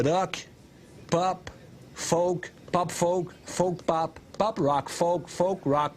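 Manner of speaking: each genre name lifted and spaced out, slowing; mock genre list. Shown as a demonstration. Ranting about award categories, deliberately spaced list. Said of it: "Tu sais, euh".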